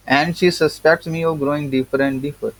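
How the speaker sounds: reading the essay slowly, word by word; slow text reading. Acted. Teacher reading the English essay to students, slow and deliberate. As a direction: read each word out to the class.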